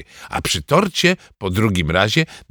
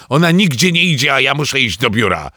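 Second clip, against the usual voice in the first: shout; 3 semitones higher, 4 dB louder than usual. Acted. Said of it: "krzyknął tata".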